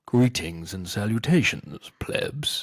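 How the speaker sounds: slow, drawn-out mock announcer greeting ending in a whisper; put-on slow show-opener, last word breathy and whispered; imitating Walker's podcast intro. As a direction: try on the podcast host's big intro voice, slowly. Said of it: "so I've gotta try this".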